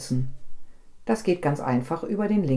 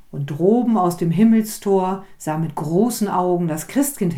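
dramatic poem recitation. A narrator's reading. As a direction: perform the poem like a fireside tale, calling out the dialogue. Reads Storm poem with voiced dialogue.

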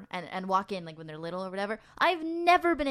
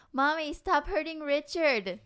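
mock kid yell; 4 semitones higher, slower than usual. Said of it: "he yells in the room".

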